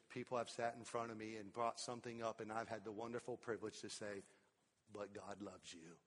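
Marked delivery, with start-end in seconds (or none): 4.9-6.0 much softer and lower, almost hushed; tender hush. Real, not acted. Preacher to congregation, a tender near-hush. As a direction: let it fall gently, like a secret of grace.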